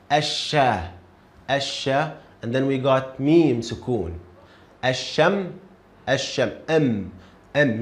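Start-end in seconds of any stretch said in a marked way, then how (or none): 0.1-2.2 Asha with no l sound; silent lam. Shown as a demonstration. Teacher repeats the sun-letter word for a student. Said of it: "I didn't pronounce lam". 4.8-6.5 Asham ending on a closed, held m; mim sukoon. Shown as a demonstration. Teacher models mim sukoon for a student. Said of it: "This is how we say mim sukoon".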